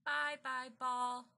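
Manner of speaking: put-on high toddler call, held back in volume; mock baby scream. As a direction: wail it lightly like a little child. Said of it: "Baby Joshua screamed".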